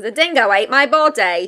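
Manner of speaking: put-on London-sounding Australian accent. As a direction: try Australian and land in London. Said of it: "That's so London".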